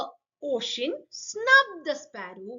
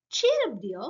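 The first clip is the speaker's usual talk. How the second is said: cheery king. Acted. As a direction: lift her spirits playfully. King comforting the queen.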